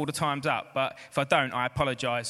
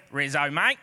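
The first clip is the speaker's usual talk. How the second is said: lower-pitched mock Aussie "mate"; Australian accent; 5 semitones lower than usual. Preacher retelling how the word sounded in his head, Australian accent. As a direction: say it like a matey Australian. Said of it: "went down an Australian accent".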